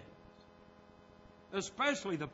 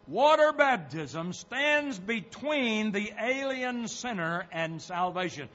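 emphatic quotation; 4 semitones higher, 5 dB louder than usual. Real, not acted. Reads tract aloud in sermon.

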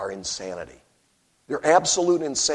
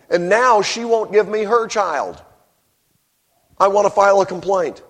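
higher, louder pleading complaint; voiced distraught mother; 7 semitones higher, 6 dB louder than usual. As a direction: plead your case to the king. Preacher voices woman's complaint.

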